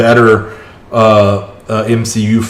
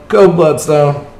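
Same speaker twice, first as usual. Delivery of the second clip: cheering; 5 semitones higher, slower than usual. Real, not acted.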